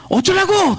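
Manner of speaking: lightly acted irritated brush-off; retold brusque retort. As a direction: imitate someone snapping "so what?". Retold brusque brush-off by old woman.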